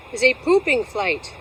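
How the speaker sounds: "pooping" blurted with extra weight; stress on pooping. Real, not acted. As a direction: lean on the word "pooping" without meaning to. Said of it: "I didn't mean to emphasize the word pooping".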